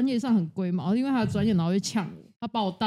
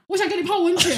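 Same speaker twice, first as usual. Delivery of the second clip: mock dreamy sleep-talk, higher and louder; 9 semitones higher, 5 dB louder than usual. Boyfriend talking in his sleep about the other girl, dreamy. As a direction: retell his murmured line as if asleep. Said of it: "他就给我讲一句".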